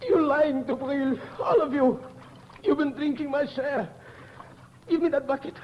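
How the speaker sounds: wild, accusing demand; crazed accusation. Acted. Covey accusing the others of stealing water, crazed. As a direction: grab for the bucket.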